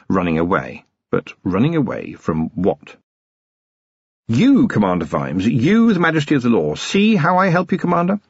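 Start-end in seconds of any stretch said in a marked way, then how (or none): 4.3-8.2 higher-pitched, drawn-up taunting voice; voice in the head. A narrator's reading. Unseen voice addresses Commander Vimes in the cave, taunting. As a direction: pitch climbs line by line to a high finish. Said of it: "too much like his own voice".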